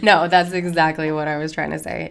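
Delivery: laughing through the words. Real, not acted. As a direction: say it while laughing. Laughing while agreeing.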